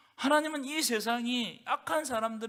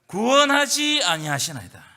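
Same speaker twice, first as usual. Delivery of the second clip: lament; 10 dB louder than usual. Acted. Reading the prophet's complaint.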